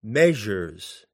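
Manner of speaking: "measures" stressed on its first syllable; stress on first unit. Shown as a demonstration. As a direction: say "measures" as a trochee, MEA-sures. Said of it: "on the first unit".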